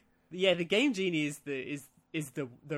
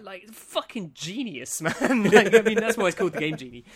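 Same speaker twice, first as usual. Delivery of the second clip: loud, fast, through laughter; laughing; 4 semitones higher, 9 dB louder than usual. Real, not acted. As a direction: crack up while explaining. Cracking up at own joke.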